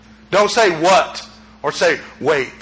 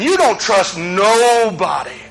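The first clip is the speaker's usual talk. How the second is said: emphatic shout; slower than usual. Real, not acted. Preacher's emphatic charge.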